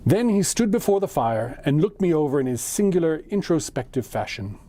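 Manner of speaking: measured audiobook-style reading; story narration. A narrator's reading. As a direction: read a classic tale aloud, phrase by phrase. Reads the story aloud.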